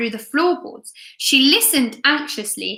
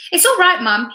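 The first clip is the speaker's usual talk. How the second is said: reassuring; 7 semitones higher, 4 dB louder than usual. Acted. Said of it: "he reassured her".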